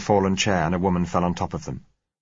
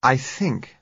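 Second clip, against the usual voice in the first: higher-pitched, considered "I think"; lightly voiced woman giving judgement; judicial; 7 semitones higher than usual. A narrator's reading. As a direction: weigh "I think" like a verdict. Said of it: "she said judicially".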